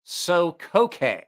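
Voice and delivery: "Sokoke" in careful separate syllables, ending "kay"; Japanese-style pronunciation. Real, not acted. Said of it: "pronounce that like a Japanese".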